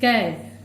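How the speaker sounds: कै said clearly and drawn out as "kai"; sounding out the syllable. Shown as a demonstration. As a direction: model कै as "kai" for the children. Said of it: "इसको हम लोग कैसे उच्चारण करेंगे".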